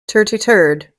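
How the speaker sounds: "Turty turd" said with a T for the TH; mocking Irish accent. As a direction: repeat "Turty turd", the TH turned into a T. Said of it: "they can't say".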